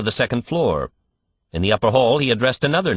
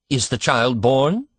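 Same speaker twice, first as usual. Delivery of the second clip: slow, higher pleading; begging; 6 semitones higher, slower than usual. A narrator's reading. Anxious father begging the doctor for news, slow pleading. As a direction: plead for an answer, drawn out. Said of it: "begged Mister Button".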